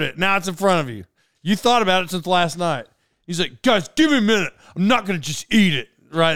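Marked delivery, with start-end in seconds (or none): 3.6-5.9 whining. Retold or imitated. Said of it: "how people talk when they start whining".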